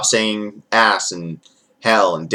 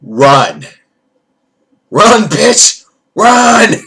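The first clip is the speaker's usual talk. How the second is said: high, loud cry to flee; panicked mock yell; 7 semitones higher, 4 dB louder, much slower than usual. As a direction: shriek at her to run, hammed-up in fear. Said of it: "I would have been like".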